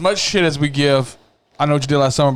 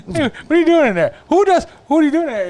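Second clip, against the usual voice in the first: mock shout; 13 semitones higher than usual. Guy shouting at someone in the toilet stall, baffled.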